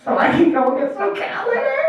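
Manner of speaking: high, small begging voice; desperate plea. Acted. Addict son asks mom for twenty bucks, desperate. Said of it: "the big desperation".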